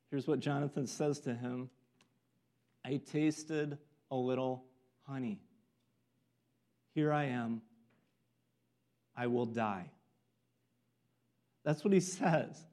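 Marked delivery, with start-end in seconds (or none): 2.8-9.9 exasperation. Retold or imitated. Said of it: "can't you hear just exasperation in that?".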